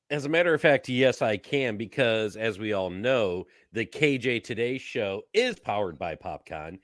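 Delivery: big hammed-up show announcer; cheesy announcer voice. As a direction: read it like a promo, punching the key words. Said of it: "announcer voice".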